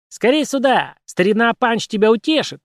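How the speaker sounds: high squeaky puppet voice. Acted. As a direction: pipe it up like a puppet. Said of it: "пропищала кукла".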